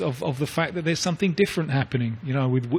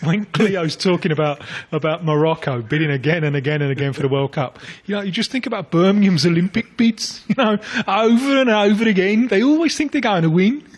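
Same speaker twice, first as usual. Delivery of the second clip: put-on higher, building louder in a Black Country accent; mock Black Country voice, lifting in pitch; 4 semitones higher, 4 dB louder than usual. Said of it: "As long as you don't do your black country".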